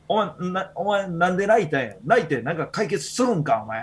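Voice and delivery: mock telling-off of a crying kid; harsh scolding. Teacher scolding a crying student, harsh. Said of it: "俺結構きつく言ってん".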